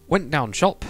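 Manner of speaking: imitating Preston dialect; Preston accent. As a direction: put on a Preston accent, dropping words. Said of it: "native English speakers".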